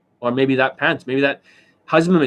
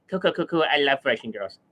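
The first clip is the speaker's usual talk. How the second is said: mocking imitation of an over-impressed coach; Justin Wayne; 2 semitones lower than usual. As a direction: lightly parody a coach gushing his approval. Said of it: "that is the Justin Wayne".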